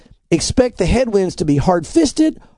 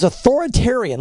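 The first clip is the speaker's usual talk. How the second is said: "authoritarian" pitched up for emphasis; stress on authoritarian; 5 semitones higher than usual. Real, not acted. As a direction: lean on the word "authoritarian". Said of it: "Let me emphasize that word".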